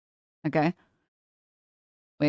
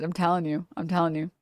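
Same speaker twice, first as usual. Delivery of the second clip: softer repeat, telling still stressed; trailing off; 6 dB quieter than usual. Real, not acted. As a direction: let the insistence fade into a mutter. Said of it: "insistent repetition, fading".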